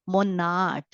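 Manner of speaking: said as mona, no final sound; a teacher reading the German word monad for learners. Shown as a demonstration. Teacher reading out a German word. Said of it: "Okay, here it is".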